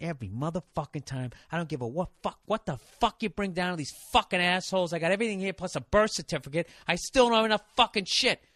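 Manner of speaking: muttered cursing. Retold or imitated. Walking out of the DMV, muttering curses under his breath. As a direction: grumble the swearing to yourself. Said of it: "Not screaming, but not whispering".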